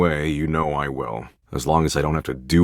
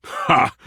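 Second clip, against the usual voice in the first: short mock laugh; 9 semitones higher than usual. Laughs, chokes on chocolate milk.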